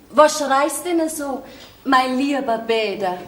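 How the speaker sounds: slow, deliberate recitation; drawn-out, obedient rephrasing; dutiful corrected repeat. Acted. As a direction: repeat it slowly as you were told. Repeats question with dictated address.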